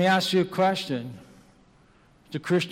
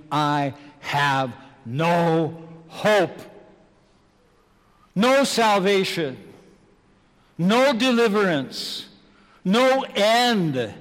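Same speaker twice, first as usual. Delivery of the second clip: voice of the damned; 4 dB louder, slower than usual. Acted. The damned voicing despair in hell.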